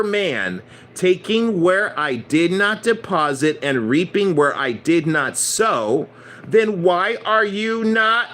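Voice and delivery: slow, weighty rebuke, rising on Knew; stern master quoting scripture slowly; master's rebuke. Retold or imitated. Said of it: "this is what I fucking said".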